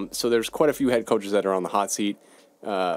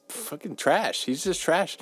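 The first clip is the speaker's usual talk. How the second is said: contemptuous; 7 semitones higher, slower than usual. Real, not acted. Scorning a college quarterback.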